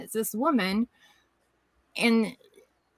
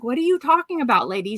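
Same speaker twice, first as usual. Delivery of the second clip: baffled question; 4 semitones higher than usual. Retold or imitated. Baffled at late nurse.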